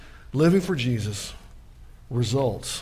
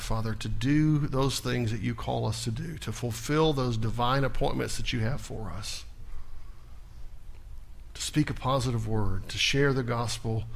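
closing prayer. Acted. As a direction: pray it reverently, bringing the service to a close.

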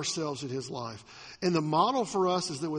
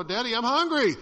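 put-on higher, louder little child whining for food; child's voice; 5 semitones higher, 5 dB louder than usual. Child waking daddy at four, whiny hungry voice. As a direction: play a sleepy hungry kid at dawn. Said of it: "come to you at four in the morning and go".

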